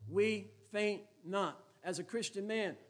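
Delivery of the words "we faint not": "We faint not" drawn out very slowly, a touch louder; deliberate slow refrain; slow emphatic motto. Real, not acted. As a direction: press the motto home, one word at a time. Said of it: "when you put your head down on the pillow".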